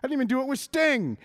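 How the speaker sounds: a hint of Flair's bragging scorn; Ric Flair. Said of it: "Ric Flair".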